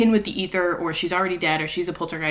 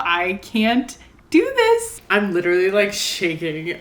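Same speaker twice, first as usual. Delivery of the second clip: choked up. Real, not acted. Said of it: "so choked up right now".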